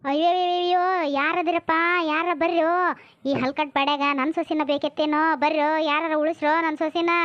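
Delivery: calling for help. Acted. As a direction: raise the alarm for the whole street. Relative cries out for help. (ಸಹಾಯಕ್ಕಾಗಿ ಗೋಳಿಡುವ ಕೂಗು)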